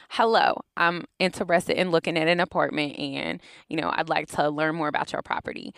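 native African American English voice. Shown as a demonstration. Researcher demonstrating her voice for housing calls, African American English accent. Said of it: "My African American voice is something more like".

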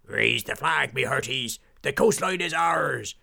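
loud pirate victory call; triumphant pirate captain. Acted. Pirate captain claiming the coastline, loud and triumphant. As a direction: claim the land with a roar.

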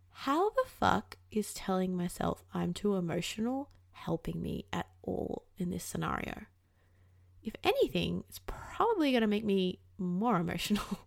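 dropping to a hushed voice, almost a whisper; hushed inner voice. Retold or imitated. Questioning her own self-talk, hushed and quiet. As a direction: talk it to yourself under your breath.

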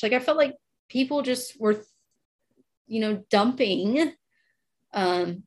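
real emotion, slowing down; holding back tears as she talks; emotional. Real, not acted. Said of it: "I'm a little emotional about it".

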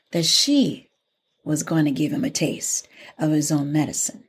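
story narration. A narrator's reading. Teacher tells an Anansi trickster tale, animated story narration. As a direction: tell it to children with dramatic pauses.

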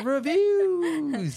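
bursting into laughter on the word; laughing. Real, not acted. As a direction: laugh out the correction. Laughs catching own slip.

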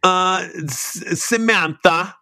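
lightly voiced foreign woman asking for a name. A friend recalls a woman wanting an American name, lightly voiced. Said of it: "She was like".

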